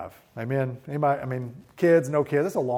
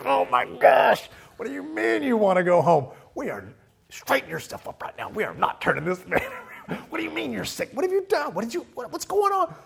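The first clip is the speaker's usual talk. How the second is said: much louder, higher frantic yelling; panicked dad; 13 semitones higher, 7 dB louder than usual. Retold or imitated. A dad yelling at his sick daughter fourteen hours in. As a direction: blurt it out like a dad at wits' end. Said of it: "And I was like".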